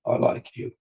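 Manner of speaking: whispered, icy-nice "I like you."; quiet angry Brit. Shown as a demonstration. Lecturer showing how angry Brits go quiet, whispering. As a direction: whisper it sweetly with anger underneath. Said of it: "get real quiet and they'll lower their voice".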